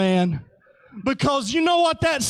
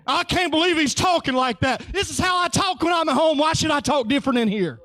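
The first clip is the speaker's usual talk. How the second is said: fast mock gossip; 3 semitones higher, much faster than usual. Voicing churchgoer.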